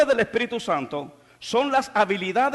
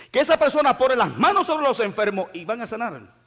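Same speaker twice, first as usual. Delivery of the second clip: fiery preaching; 3 semitones higher than usual. Acted. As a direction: drive the point home to the church. Preaching to the congregation.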